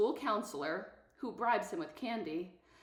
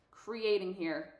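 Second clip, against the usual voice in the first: mocking echo; slower than usual. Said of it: "She actually said that".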